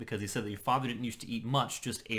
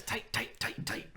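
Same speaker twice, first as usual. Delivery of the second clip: Tuco impression; 4 dB quieter, slower than usual. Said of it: "good Tuco, by the way".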